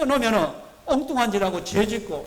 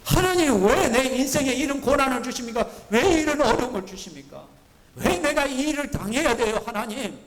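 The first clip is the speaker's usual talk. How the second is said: complaining to God; 5 semitones higher than usual. Retold or imitated. A believer whining at God why me. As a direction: whine at God like a wronged child. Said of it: "우리가 이런 식이에요".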